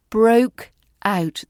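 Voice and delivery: Broke out with clear, full diphthongs. Shown as a demonstration. Teacher modelling clear diphthongs. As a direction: stretch the vowels in Broke out. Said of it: "There's clear diphthongs".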